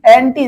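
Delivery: অ্যান্টি in one piece, landing on টি; stress on টি. Shown as a demonstration. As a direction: bring out the টি at the end of অ্যান্টি. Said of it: "টি কথাটা বেশি উচ্চারণ হচ্ছে". (অ্যান্টি-র টি স্পষ্ট জোরে)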